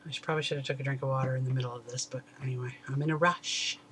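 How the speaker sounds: pen touching lips; talking between puffs; speaking around vape pen. Real, not acted. Seen 0: pen held at mouth, touching lips around 0.9–1.9s.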